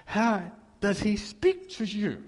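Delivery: put-on a young man at his wits' end with his mentor; frustrated outburst.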